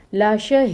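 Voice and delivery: لا شہید with the ee of شہید held six counts before the stop; six-count madd. Shown as a demonstration. Teacher showing the pause lengthening, long held ee. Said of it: "اس کو میں six counts کر رہی ہوں".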